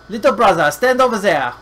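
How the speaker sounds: calling out. Pretend. Calls to game character.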